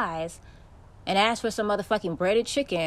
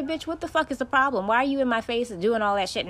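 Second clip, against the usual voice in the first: retold telling-off; 5 semitones higher than usual. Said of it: "So I say".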